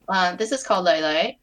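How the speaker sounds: steady, even read-aloud narration; story narration. A narrator's reading. Reading her own fic aloud to friends, calm narration.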